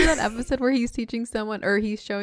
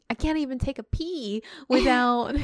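imitating Jim Dale's Hermione; 4 semitones higher than usual. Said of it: "Jim Dale was doing Hermione's voice".

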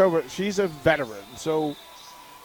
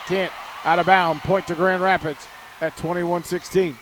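measured volleyball play-by-play, key words punched; live play-by-play. Real, not acted. Radio announcer calls the point to listeners, play-by-play. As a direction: call the rally as it unfolds.

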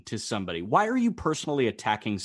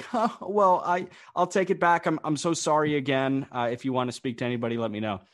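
flustered server apologizing, then hurrying through; nervous runner; 3 semitones higher than usual. Retold or imitated. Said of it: "gave off a nervous laugh".

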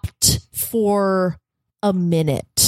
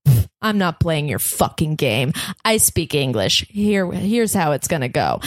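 lower, dismissive put-down in a mock voice; rude Parisian; 4 semitones lower than usual. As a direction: play the snooty local brushing her off. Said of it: "they would be like".

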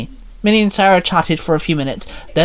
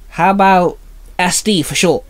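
funny sword voice; 4 semitones higher than usual. A narrator's reading. Saba's odd sword voice.

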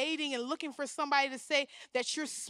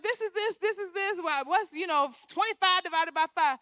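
lightly played teacher, higher voice; raised classroom voice, retold; acted teacher; 5 semitones higher, 7 dB louder than usual. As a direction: drill it like a teacher at the board. Acts herself teaching a restless pupil.

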